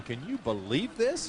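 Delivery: slow, drawn-out mock disbelief; imitated sarcastic disbelief. Commentator imagines a colleague on the phone, sarcastically incredulous. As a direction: quote him incredulously, stretching it out. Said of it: "laughing sarcastically, going".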